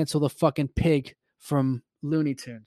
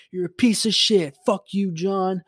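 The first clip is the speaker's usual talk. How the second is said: high-pitched mock teenage rage; re-enacted pissed-off yelling; 6 semitones higher than usual. Teenager cursing his winning buddy, mock pissed off. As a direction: act out a half-volume gamer tantrum. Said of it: "I'm getting so pissed".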